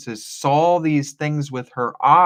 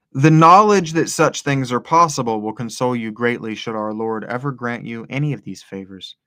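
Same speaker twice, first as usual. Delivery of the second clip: measured radio-style reading aloud; deep radio voice; 5 dB louder than usual. Real, not acted. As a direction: read it out like a radio announcer, strong start settling down. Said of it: "going down into my deep radio voice".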